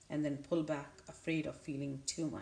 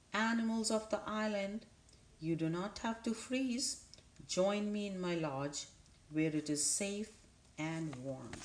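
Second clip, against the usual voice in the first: calling out; 4 semitones higher than usual. Acted. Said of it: "she called out to whoever was listening".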